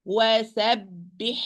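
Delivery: slow "Wasabbihu", the throat h kept apart from the final hu; careful syllable-by-syllable "Wasabbihu"; unmerged ha. Shown as a demonstration. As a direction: keep both h sounds distinct in "Wasabbihu". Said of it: "do not merge the ha into ha".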